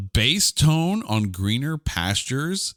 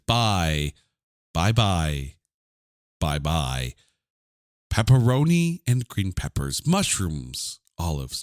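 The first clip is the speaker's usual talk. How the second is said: lightly voiced Shatner, slow with long pauses; halting, overdone dramatic recital, only a touch; William Shatner reading; 4 semitones lower than usual. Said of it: "literally the William Shatner version".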